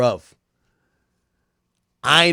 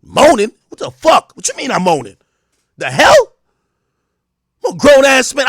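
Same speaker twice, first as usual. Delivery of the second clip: higher and louder, outraged and defensive; outraged shout; 5 semitones higher, 7 dB louder than usual. Retold or imitated. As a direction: yell it like your manhood's insulted.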